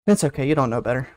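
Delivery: ordinary talk, nothing marked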